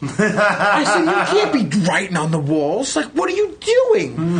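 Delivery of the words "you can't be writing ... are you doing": laughing disbelief. Retold or imitated. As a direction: scold her while cracking up. Retold scolding mom, laughing.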